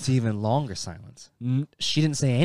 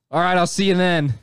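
laughing; 5 semitones higher, 5 dB louder than usual. Real, not acted. Quoting the hostess, laughing.

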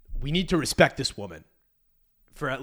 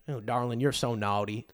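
lower, soft Southern drawl; 4 semitones lower, 4 dB quieter than usual. Retold or imitated. Host trying dirty talk as Americans, imitated Southern drawl. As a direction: put on a teasing American Southern accent. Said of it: "the Southern drawl".

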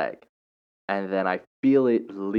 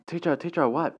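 put-on kids calling out; 8 semitones higher than usual. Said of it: "they were like".

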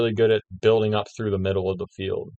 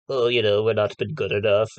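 mock shrill voice. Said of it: "weird little shrill voice".

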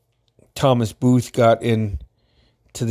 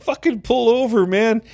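imitating excited order; 11 semitones higher than usual. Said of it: "he's like".

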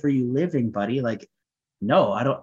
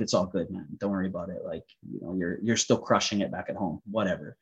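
fake nonchalance; 4 semitones lower, 6 dB quieter than usual. Pretending not to care.

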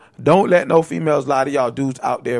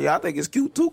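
feigned agreement; 3 semitones higher than usual. Acted. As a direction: play along as if you agree, setting a trap. Contrasts own reaction with theirs.

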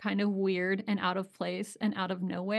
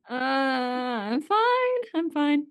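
laughing; 5 semitones higher, 3 dB louder, much slower than usual. Real, not acted. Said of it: "you are still healing".

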